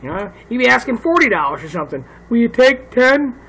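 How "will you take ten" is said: slow, higher mock southern buyer; southern accent. Texter lowballs a forty-dollar item, southern accent. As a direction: drag out the offer in a light southern accent. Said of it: "why do I say that in a southern accent".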